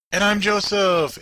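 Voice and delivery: booming intro. Pretend. Joking intro with big voice.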